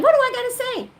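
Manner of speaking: high, loud retold outburst; re-enacted frustrated demand; exasperated question. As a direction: beg to be told, at wits' end. Acts out man's growing exasperation.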